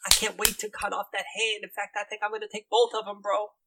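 gleeful bro character threat; threatening bro boss. Acted. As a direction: threaten eagerly in a high bro voice. Game master voices threatening guildmaster.

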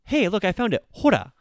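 like you just found the lost thing; excited find. Retold or imitated. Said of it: "use it to be like".

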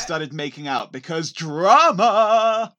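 slow, loud laughing exclaim. Real, not acted. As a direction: laugh out the word drama. Mocking the show's plot.

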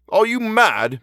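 high, exasperated question; incredulous. A narrator's reading. Inspector to the constable, exasperated and incredulous. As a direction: demand it in outraged disbelief.

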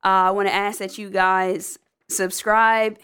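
normal talking voice

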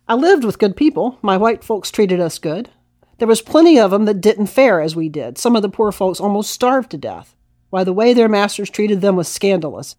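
lively, lightly acted first-person reading; testimony read aloud. Historian quoting a formerly enslaved woman, lightly acted testimony reading. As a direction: read out an old recollection with emphatic, folksy conviction.

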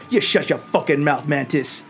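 angry dwarf. Acted. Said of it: "He goes".

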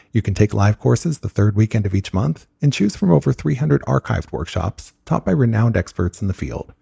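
brisk, even sponsor read. Acted. Host reading sponsor spots to listeners, ad read. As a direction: sell it like a podcast ad.

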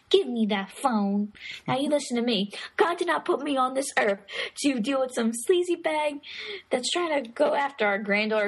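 hammed-up telling-off of a caller; imitated indignant grandparent. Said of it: "the grandma and the grandpa".

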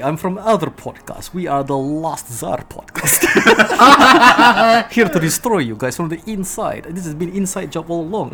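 put-on hammy Russian spy accent. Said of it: "that Russian accent".

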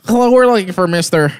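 hint of a formal call-center agent; imitated phone caller. Debt caller asking for someone by phone, lightly imitated. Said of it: "They be like".

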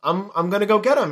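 a hint of a thrilled cop father; mock excited. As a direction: act out the dad jumping at the tip. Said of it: "he's, like, all excited".

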